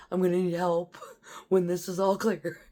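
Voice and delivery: words giving way to laughter; hysterical laughing. Real, not acted. Shaken soldier asking bunker mates for help, laughing. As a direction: talk on until the laugh takes over. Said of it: "like, hysterically".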